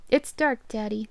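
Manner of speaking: lost in the dark; frightened child. Acted. Lost daughter telling her father it is dark.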